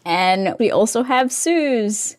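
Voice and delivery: slipping into an Australian accent; slow, slight Australian accent; Aussie accent. Real, not acted. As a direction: say Suze the Aussie way, drawn out slowly. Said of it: "like, an Aussie accent".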